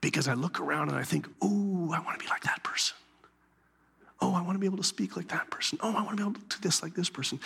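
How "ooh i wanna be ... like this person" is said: breathy whispered longing, quickening; envious whisper. Retold or imitated. Pastor voicing his own envy in a whisper. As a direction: whisper the wish to yourself.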